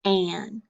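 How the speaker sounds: "an" as the ending of plan alone; "an" starting straight on the short a; word without blend. Shown as a demonstration. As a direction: say "an" as a separate chunk. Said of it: "without the pull is just".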